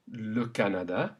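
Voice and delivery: le Canada with open French a sounds. Shown as a demonstration. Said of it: "Keep the A or A sound consistent".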